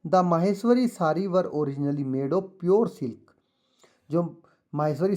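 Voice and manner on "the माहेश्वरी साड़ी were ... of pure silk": slow, deliberate read-aloud for pupils; teacher reading the textbook passage. Shown as a demonstration. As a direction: read it out slowly so the class can follow. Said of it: "तो मैं पढ़ता हूँ इसको".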